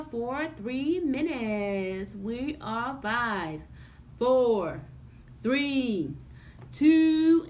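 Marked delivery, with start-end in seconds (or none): 3.0-7.5 loud countdown. Real, not acted.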